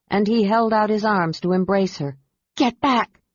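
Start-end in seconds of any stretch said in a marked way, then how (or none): 2.6-3.2 warning. Acted. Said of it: "Kit warned".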